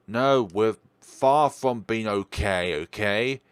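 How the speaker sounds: slow loud protest; loud, slow insistence. Acted. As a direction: push back hard, word by word. Arguing with friend.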